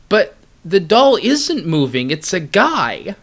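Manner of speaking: calm logic voice. Pretend. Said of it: "this is what they said".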